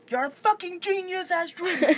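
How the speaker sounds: teammates praising. Retold or imitated. Teammates gushing at Astrid, lightly voiced praise. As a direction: mimic excited praise. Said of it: "Och de bara så här".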